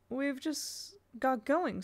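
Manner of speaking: reproachful. Acted. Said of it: "Simon said reproachfully".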